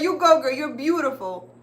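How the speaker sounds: put-on loud, high you go girl; hyped cheer. Repeating her cheer for the influencer, loud and high. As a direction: cheer her on like a hype friend. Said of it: "I was like".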